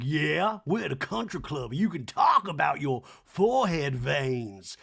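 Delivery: drawn-out mock socialite, slowing; lightly voiced Southern lady drawl; Sutton. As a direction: stretch the last words grandly. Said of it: "And Son's like".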